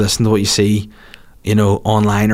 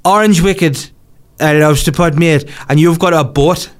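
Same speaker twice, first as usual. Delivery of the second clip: Gazza impression; 5 semitones higher than usual. Gazza voiced in a story.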